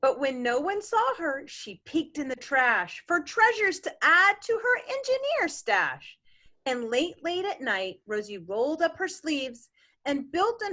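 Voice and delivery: rhythmic picture-book reading; gentle bedtime-story reading; story narration. A narrator's reading. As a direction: read the rhyme to a child. Parent reads picture book aloud.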